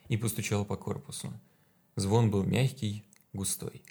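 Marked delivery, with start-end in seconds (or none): none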